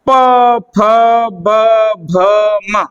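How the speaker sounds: प फ ब भ म each sounded with closed lips; teacher's letter drill; lip consonants. Shown as a demonstration. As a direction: pronounce प फ ब भ म one at a time. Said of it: "तो एक बार बेटा उच्चारण करें".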